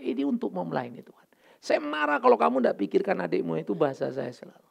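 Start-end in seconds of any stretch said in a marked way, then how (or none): 0.0-1.3 breathy whispered line; whispering; whispered aside. Retold or imitated. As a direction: drop to a whisper, no voice. Aside while scolding.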